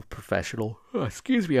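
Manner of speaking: talking through a yawn; words stretched by a real yawn. Real, not acted. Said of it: "I'm yawning now".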